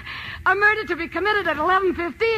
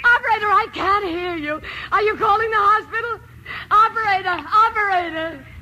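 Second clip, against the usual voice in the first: near tears, higher and urgent; frantic woman alone at night; panicked pleading; 4 semitones higher than usual. Acted. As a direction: beg the operator in panic. Panicked call to operator.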